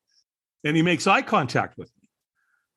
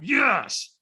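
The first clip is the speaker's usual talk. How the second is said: higher yes, still short of full scream; slightly stronger yes; 5 semitones higher than usual. Retold or imitated. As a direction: step it up, but hold back. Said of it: "I was not in a peak state".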